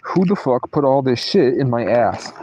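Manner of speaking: lightly voiced sweary mom; mock-indignant mom demanding answers; a touch of mom's ranting; imitating mom. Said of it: "That's how my mom".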